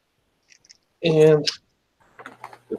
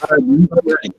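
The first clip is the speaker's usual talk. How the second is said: loud, high eager answer; ready and pumped; 12 semitones higher, 4 dB louder than usual. Real, not acted. Eager reply before challenge.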